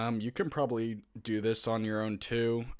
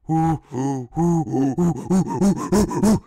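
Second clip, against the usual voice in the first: loud, higher, rapid ooh-ooh calls; excited monkey hooting; 6 semitones higher, 11 dB louder, slower than usual. Shown as a demonstration. Getting viewers into the monkey character, loud hooting. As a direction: go full monkey, hooting hard. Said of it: "get into it".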